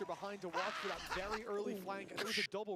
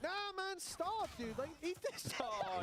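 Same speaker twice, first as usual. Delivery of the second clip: mock exasperated; 10 semitones higher, slower than usual. Real, not acted. Mock complaint at player.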